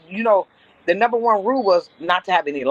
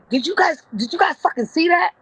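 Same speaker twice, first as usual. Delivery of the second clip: retold outrage; 10 semitones higher than usual. Boss angrily confronts supervisors, retold.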